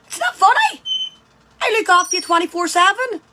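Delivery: high, mock-hurt protest; mock indignant. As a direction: pretend to be offended. Mock offended at laughing dog.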